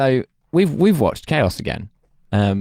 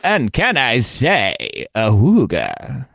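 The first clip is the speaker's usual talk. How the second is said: Matt Berry impression; 3 semitones higher, much slower than usual. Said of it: "Matt Berry do an awooga noise".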